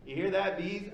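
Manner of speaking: mock yell. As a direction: call it out across the office, half-joking. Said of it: "And she yells".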